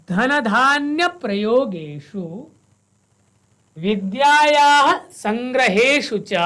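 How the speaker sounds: slow verse, each full line in one breath; full line recitation. Shown as a demonstration. Teacher recites full verse lines for students, slow and even. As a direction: read each whole line through, slowly. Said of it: "पूर्णचरणस्य वयम् उच्चारणं कुर्मः।".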